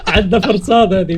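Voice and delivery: loud, laughing through words; laughing while talking. Real, not acted.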